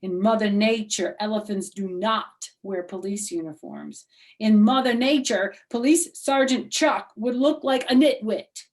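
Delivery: loud, sassy put-down; cheeky child correcting a rival; sassy comeback. Acted. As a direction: sass her with a know-it-all tone. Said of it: "news flash, madam".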